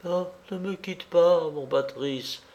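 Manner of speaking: put-on frightened young woman's entreaty; imploring. A narrator's reading. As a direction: beg him to stay, voice dropping away. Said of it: "implorait la jeune femme".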